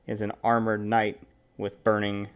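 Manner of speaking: measured game master narration; scene narration. Acted. Game master unveils the armored knight to players, measured narration.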